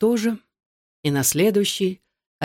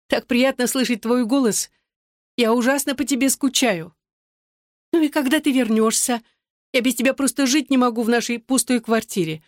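put-on chatty girlfriend voice; 4 semitones higher than usual. Vicky voiced by narrator.

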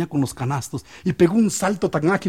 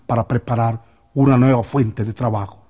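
loud commanding call over the crowd; shouting for silence; 2 semitones lower, 4 dB louder than usual. Retold or imitated. Snake charmer shouting the crowd into silence, loud. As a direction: shout it out to stop the applause. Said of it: "que gritó".

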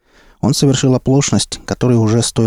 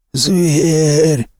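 rasped out, higher; croaking through pain; hoarse croak; 7 semitones higher than usual. A narrator's reading. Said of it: "прохрипел охотник".

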